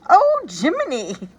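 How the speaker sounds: a hammed-up cry of pain; mild mock scream. A narrator's reading. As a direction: chancellor bitten on the finger. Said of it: "making him scream".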